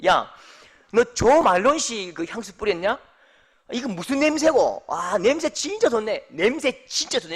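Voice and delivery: high, hearty praise of the smell; mock cheerful compliment. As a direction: compliment her scent, all pleased. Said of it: "이렇게 했거든요".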